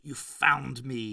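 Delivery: very slow, dragged-out words; a mild gasp of dismay. Acted. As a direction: struggle to get the words out. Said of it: "he gasped".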